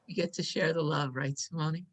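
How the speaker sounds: soft, hushed aside; hushed near-whisper. Real, not acted. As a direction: ask it softly, as if half whispering. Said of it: "I don't know why I'm whispering".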